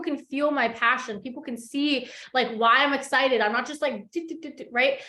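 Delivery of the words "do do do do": mock monotone. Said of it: "so monotone on social media".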